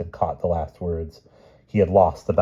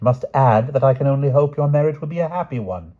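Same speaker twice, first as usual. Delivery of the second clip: icy queen; 8 semitones higher, 8 dB louder than usual. Acted. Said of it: "said the Queen icily".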